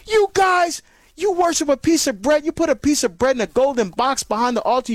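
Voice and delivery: mock an accuser, a touch indignant; hostile questioner. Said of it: "Sometimes those questions may be hostile".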